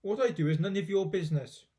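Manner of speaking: grumpy grandma. Acted. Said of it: "the old woman said".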